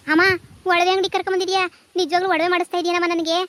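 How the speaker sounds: can't believe her luck, so ask it eagerly; thrilled daughter. Acted.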